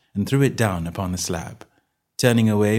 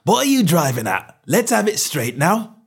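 higher, heated challenge; riled stallholder, voice raised; burst of anger; 10 semitones higher, 4 dB louder than usual. A narrator's reading. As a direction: demand a straight answer from a nosy customer. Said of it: "provoked a burst of anger".

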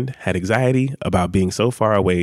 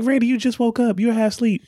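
retold exasperation; 11 semitones higher than usual. Retold exasperated reply to partner.

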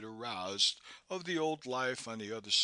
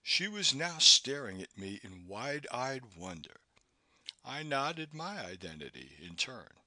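ordinary delivery, nothing marked

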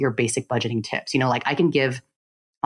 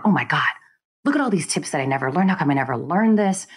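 retold indignant complaint, slightly raised pitch; a touch of exasperated disbelief; mild indignation; 3 semitones higher than usual. Guest retelling their first money lessons, mildly indignant. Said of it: "almost angry and indignant".

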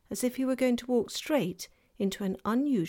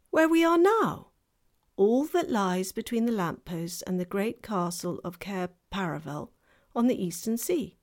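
fawn voice; 2 semitones higher, 3 dB louder than usual. Acted. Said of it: "said the fawn".

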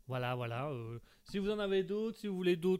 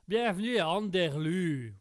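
put-on Québécois accent; 5 dB louder, slower than usual. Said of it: "je vais même le faire avec l'accent".

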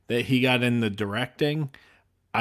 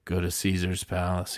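voice from heaven; 5 semitones lower, 5 dB quieter than usual. Acted. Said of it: "he hears the voice go".

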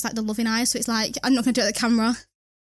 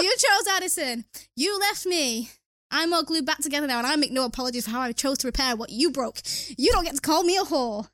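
emotional monologue. Acted. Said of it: "masterclass at Meredith and Derek".

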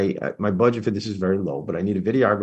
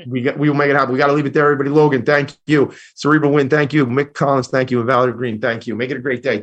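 upbeat sign-off; 4 semitones higher, 6 dB louder than usual. Real, not acted. Host signing off the show.

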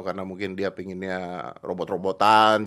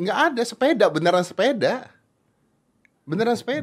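high, louder excited protest; excited insistence; 11 semitones higher, 5 dB louder than usual. Real, not acted. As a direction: insist loudly, pitched way up. Host insists it really is bike.

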